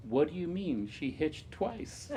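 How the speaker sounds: pleasantly puzzled, slowing right down on the punchline; pleasant and calm. Retold or imitated. Bridge mentor gently corrects a new player, pleasantly calm. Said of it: "very pleasantly and calmly".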